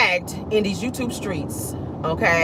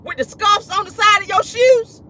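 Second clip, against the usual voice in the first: mock sassy retelling; 11 semitones higher than usual. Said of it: "He said".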